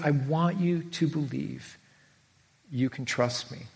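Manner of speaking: soft, slow and tender; gentle reassurance. Retold or imitated. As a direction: reassure him quietly. Jesus gently reassures Thomas.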